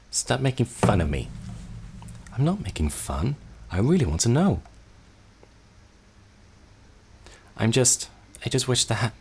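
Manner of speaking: put-on a hurt child, defensive; young Jennifer pouting at her sibling; young sister.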